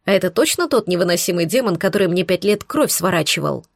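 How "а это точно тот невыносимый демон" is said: plain reading voice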